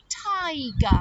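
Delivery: "Tiger" said slowly and clearly; clear model word. Shown as a demonstration. Teacher models the name for young children, clear "Tiger". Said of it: "Let's say his name again".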